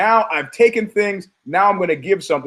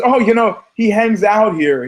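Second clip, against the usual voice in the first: playing cute; 5 semitones higher, 4 dB louder than usual. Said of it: "she's trying to be cute with me".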